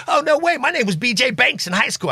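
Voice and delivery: put-on high, bright squeal of a girl recognizing the name; mock excited girl. Girl at the house squealing to Lofty about her nickname.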